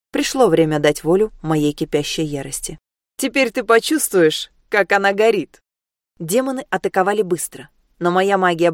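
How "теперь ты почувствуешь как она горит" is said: fierce threat. Acted. Heroine unleashes her fury.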